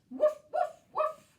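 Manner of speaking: high, loud, yappy puppy woofs; barking like a dog. Pretend. Teacher playing a dog for the kids, loud yappy barks. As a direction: bark like an excited little dog. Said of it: "We can make a doggy noise".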